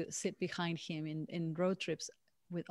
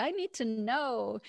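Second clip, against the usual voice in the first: anxious, fretful, nervous voice, high and slow; 5 semitones higher, 4 dB louder than usual. Imitating one's own anxious inner voice: imitating a nervous inner voice. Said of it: "it's all nervous".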